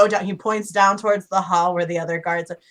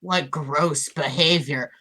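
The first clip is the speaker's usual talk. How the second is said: usual speaking voice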